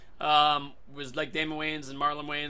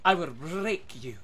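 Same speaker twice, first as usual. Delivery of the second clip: Zarya emote; slower than usual. Retold or imitated. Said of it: "what's my emote?".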